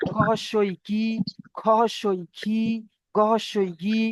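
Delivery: "কি", "খি", "গি" each on a held ee; spelling-out drill. Shown as a demonstration. Teacher showing the zer sound, "কি", "খি", "গি" with clear ee. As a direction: spell out, then hold "কি", "খি", "গি". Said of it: "জেরের উচ্চারণ হবে হস্যই".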